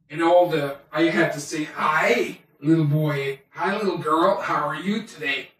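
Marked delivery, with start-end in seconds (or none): 1.6-5.5 cheerful greeter. Retold or imitated. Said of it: "I always had to be cheerful".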